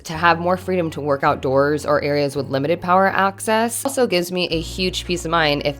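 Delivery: projected promotional voice-over; sponsor read. Real, not acted. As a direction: present the product clearly to viewers. Reads the sponsor segment.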